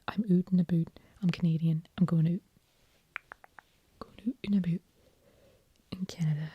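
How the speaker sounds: stereotyped Canadian accent with "oot" and "a boot". Shown as a demonstration. Trying out Canadian for listeners, Canadian accent. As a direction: put on a token Canadian accent. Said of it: "so now we're going to Canadian".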